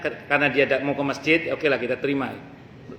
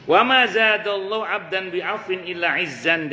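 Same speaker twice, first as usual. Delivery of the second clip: slow, measured Arabic recitation; hadith recitation; 2 semitones higher, slower than usual. Acted. Preacher reciting a hadith chain to the congregation, slow and measured. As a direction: intone the chain of narrators slowly.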